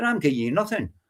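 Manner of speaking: ordinary talk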